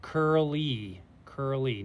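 "Curly" ending in a clear ee, said twice; teacher's demonstration of "curly"; long E ending. Shown as a demonstration. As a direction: model "curly" drawn out, then shorter. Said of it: "Y says the long E sound".

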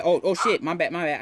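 startled shout. Real, not acted. Missed teammate's call, startled.

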